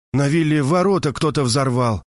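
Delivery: normal talking voice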